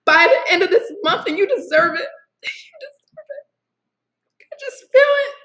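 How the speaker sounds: high tearful voice, breaking into sobs; emotional, crying. Real, not acted. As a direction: insist through real tears. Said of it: "I don't mean to get emotional".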